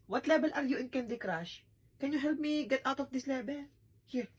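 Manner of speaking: normal talking voice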